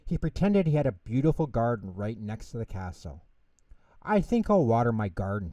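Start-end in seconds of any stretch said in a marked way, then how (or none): 4.0-5.5 said loudly. Acted. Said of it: "he said loudly".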